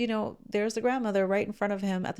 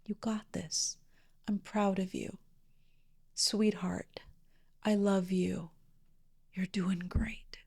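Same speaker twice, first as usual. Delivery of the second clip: soft, slow, half-whispered encouragement; tender murmured self-talk; gentle self-compassion; 4 dB quieter than usual. Retold or imitated. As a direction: speak kindly to yourself. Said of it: "I want you to hear the words she used".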